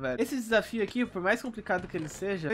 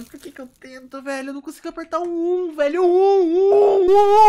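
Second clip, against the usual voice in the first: frustrated crying; 9 semitones higher, 15 dB louder than usual. Real, not acted. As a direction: whine at the button that won't work. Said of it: "Tô quase chorando aqui". (choro frustrado, agudo e alto)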